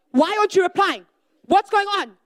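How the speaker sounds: anxious texter yelling ping at an unread chat; frantic pinging. Acted. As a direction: spam them with pings, increasingly desperate.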